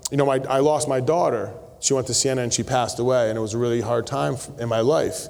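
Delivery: low, understated retelling of a loss; subdued sorrow. Retold or imitated. Man tells the pastor he lost his daughter, subdued. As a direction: confide a loss gently, pitch dropped. Retold stranger confides daughter's death.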